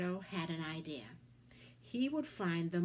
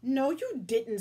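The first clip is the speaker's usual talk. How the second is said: sharp, loud retort, higher; snapped; 4 semitones higher, 7 dB louder than usual. A narrator's reading. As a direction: bite back at the monster. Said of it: "snapped Sam".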